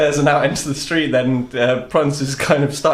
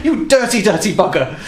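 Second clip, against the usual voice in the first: mock outrage; 7 semitones higher than usual. Prance still accusing.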